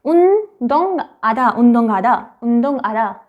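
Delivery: "उन दोंग आधा" with the ng sound kept; demonstrated reading. Shown as a demonstration. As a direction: model "उन दोंग आधा" for learners. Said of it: "आप उसको कैसे पढ़ेंगे".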